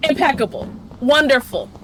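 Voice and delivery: deadpan mock admiration, word by word; sarcastic praise. Real, not acted. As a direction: praise the disaster with bitter irony. Sarcastic praise after pointless ambush.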